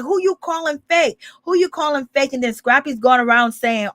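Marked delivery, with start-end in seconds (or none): 0.0-2.3 a raised, offended echo of Bambi snapping back; indignant retort. Retold or imitated. Imitating Bambi firing back at Scrappy, mock offended. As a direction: throw the question back, insulted. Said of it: "she was like".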